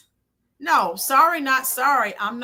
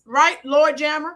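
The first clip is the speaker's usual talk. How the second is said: loud shouted question to a viewer; calling out; 4 dB louder than usual. Real, not acted. Host calling out to a chat viewer, loud rising shout. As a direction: call out to the chat for backing.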